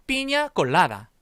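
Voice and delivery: "피냐콜라다" slow and loud with palatal "냐"; correct pronunciation. Shown as a demonstration. Teacher having everyone say the drink correctly, correct pronunciation. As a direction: punch out "피냐콜라다" for the class, stretching "라". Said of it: "이렇게 읽어줘야 된다".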